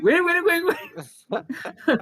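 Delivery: loud high frantic calling; frantic wait. Retold or imitated. Calling the girl back before she leaves, loud and frantic. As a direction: shout after her to stop.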